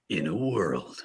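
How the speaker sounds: slow, dramatic trailer announcer; in a world, epic and slow; movie trailer voice. Shown as a demonstration. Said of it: "I need to hear this movie voice".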